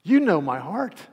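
emphatic, drawn-out appeal to God; grieved insistence. Acted. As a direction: protest from a wounded heart. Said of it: "Peter was grieved in his spirit".

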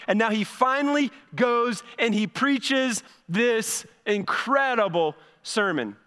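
slow, mock-admiring build-up; dry sarcasm, drawn out; sarcastic. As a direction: praise it while meaning the opposite. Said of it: "I'm being sarcastic".

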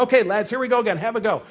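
rally them with a hint of British accent; attempted British accent. Coach restarting the drill for his players, rough British accent. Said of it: "in this wonderful British accent".

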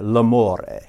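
lightly put-on Italian accent; a hint of hammy Italian; bad Italian accent. Voice in his head on the plane, bad Italian accent. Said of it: "you do a bad Italian accent".

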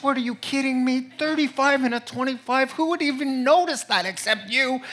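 hammed-up outrage at a petty ticket; mock indignant rant. Preacher retelling his rant at the officer, mock indignant. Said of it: "I was going on and on like this".

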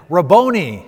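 called out loudly; loud joyful cry; cried out. Acted. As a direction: call to him with joy. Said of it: "she cries out to him".

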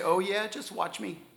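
sarcastic retort. Retold or imitated. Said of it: "And we say".

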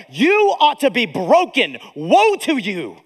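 a preacher voicing James in righteous anger; stern rebuke. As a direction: scold the church as James would. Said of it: "And James like".

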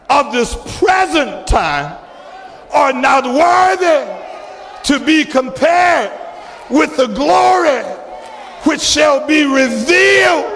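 preacher stretching out the verse; preached scripture. Acted. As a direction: declaim the verse phrase by phrase, with long pauses.

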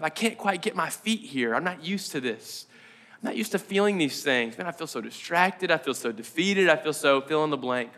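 defeated. Acted. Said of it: "It's that place of resistance".

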